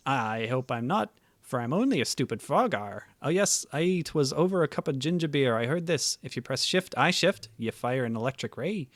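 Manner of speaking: hearty pirate voice, a bit hammed up. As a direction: read it like a cheerful pirate. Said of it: "I will do the pirate voice".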